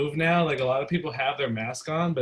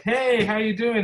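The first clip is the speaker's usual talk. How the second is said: pushy customer; 8 semitones higher, 5 dB louder than usual. Retold or imitated. Mimicking customer leaning in.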